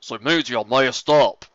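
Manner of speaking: loud, slow, altered growl; growling Big Mac. Acted. Big Mac glaring at Applejack, loud slow growl. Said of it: "Big Macintosh growled".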